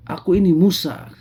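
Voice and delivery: high, loud proud declaration; arrogant. Acted. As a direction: announce your name proudly. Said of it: "katanya dengan sombong". (dengan sombong menyebut nama)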